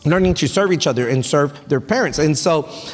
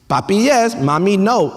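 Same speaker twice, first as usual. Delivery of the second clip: a hint of a toddler demanding; imitating toddler. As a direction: play the bossy three-year-old lightly. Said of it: "my favorite thing that she says".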